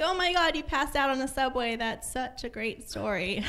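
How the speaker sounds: put-on high, bubbly girly gush; gushing compliment. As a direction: gush like an impressed friend. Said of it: "Or like".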